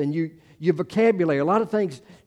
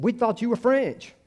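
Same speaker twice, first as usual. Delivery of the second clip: high, sing-out child imitation; high-pitched retold kid voice; little kids; 9 semitones higher than usual. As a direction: pipe up like a puzzled little kid. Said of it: "the little kids were saying".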